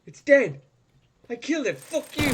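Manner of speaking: high, loud jubilation; triumphant shout. Real, not acted. Player gloating over a slain Dalek, triumphant shout. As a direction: crow over the kill at full voice. Celebrating killing the enemy.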